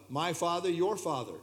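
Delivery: my and your each lifted as the key words; contrast my and your. Shown as a demonstration. Teacher contrasting Jesus's words for the class, stressing my and your. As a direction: set my Father against your Father. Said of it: "speaking of my Father here".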